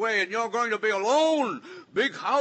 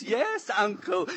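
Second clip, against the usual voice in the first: slow, sneering Yes, uncle; mock her sweetness in a low drawl; lower mock of the niece; slower than usual. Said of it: "talk like this".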